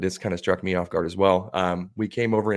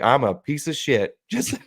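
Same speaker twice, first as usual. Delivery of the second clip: laughing self-mockery; 6 semitones higher, 4 dB louder, slower than usual. Self-deprecating reply after tree shot.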